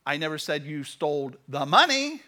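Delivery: "money" punched loud at the end; stress on MONEY. Shown as a demonstration. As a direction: save the weight for the final "money". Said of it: "depending on what word you emphasize".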